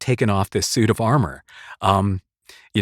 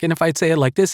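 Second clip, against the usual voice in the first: a touch of talking down, pitched up a bit; condescending; 6 semitones higher, faster than usual. Shown as a demonstration. Voice actor demoing a line reading to viewers, condescending. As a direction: say it as if the listener is beneath you. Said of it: "it sounds condescending".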